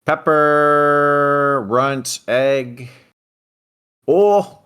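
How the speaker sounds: high, loud naming of pets; excited. Real, not acted. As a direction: announce each cat with delight. Introducing cats excitedly.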